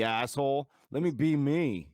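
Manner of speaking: high-pitched mock indignant whine; retold teenage protest. Teen pleading with dad for independence, retold indignant protest. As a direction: imitate a teen demanding freedom.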